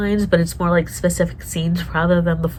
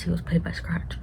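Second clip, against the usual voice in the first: whisper; 8 dB quieter than usual. Real, not acted. Conspiracy aside, hushed.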